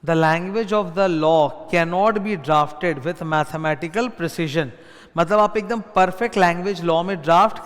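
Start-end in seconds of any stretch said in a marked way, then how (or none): 0.1-4.7 quoted dialogue. Shown as a demonstration. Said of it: "this is the dialogue".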